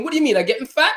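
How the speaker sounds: put-on indignant Trinidadian mother's accent. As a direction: ask it in a Trinidadian accent, offended. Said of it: "In her, in her accent".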